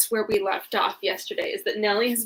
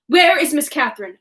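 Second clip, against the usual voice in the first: stern demand; 2 semitones higher, 4 dB louder than usual. Acted. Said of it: "I demanded sternly".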